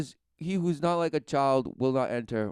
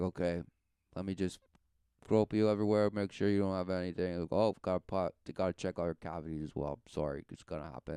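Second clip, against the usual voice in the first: lower, softer official voice; matter-of-fact searcher; 4 semitones lower, 4 dB quieter than usual. Acted. Guy announces a body search, low and matter-of-fact. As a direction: drop low, lightly voicing a man doing his routine.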